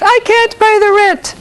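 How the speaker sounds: very high wailing heroine voice; damsel in distress. Acted. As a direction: squeal it like a helpless heroine. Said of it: "I just put on three masks".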